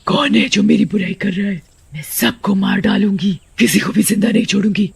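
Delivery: lightly voiced vengeful witch; hammed-up witch's threat; threatening witch. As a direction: menace everyone in earshot. Witch appears, threatens everyone.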